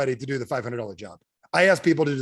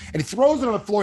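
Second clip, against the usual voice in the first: raised, louder retelling of an angry throw; 7 semitones higher, 4 dB louder than usual. Retold or imitated. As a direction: tell it hot, voice up. Angry guy throws phone book.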